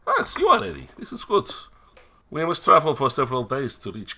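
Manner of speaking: eager and high-pitched; excited. Acted. Eager NPC boy.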